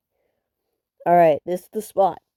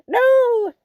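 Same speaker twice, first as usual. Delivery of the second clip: surprised; 4 dB louder than usual. Real, not acted. Realizes he is on the wrong team.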